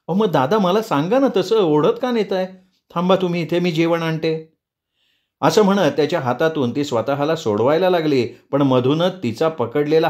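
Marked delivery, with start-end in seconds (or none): 0.1-4.5 high, anxious appeal; pleading young woman. Acted. Priyanka offering to fetch him food, high and pleading. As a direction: reason with him in a raised, worried voice.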